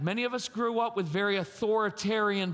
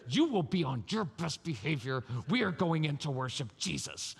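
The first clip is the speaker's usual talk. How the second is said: stern parent; 3 semitones lower than usual. Acted. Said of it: "yell at your kids".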